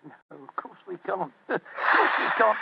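slow Cockney reply breaking into a chuckle; drawn-out words with a laugh; chuckling. Acted. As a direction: laugh along as the slow-witted mate. Sidekick chuckling along in disguise.

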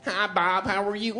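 prissy polite white man parody; a hint of a dorky white man greeting; mock nerdy white voice. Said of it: "black comics have you heard in your lifetime go".

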